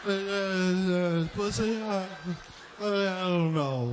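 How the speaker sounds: lightly voiced flustered nurse. Nurse taking temperature.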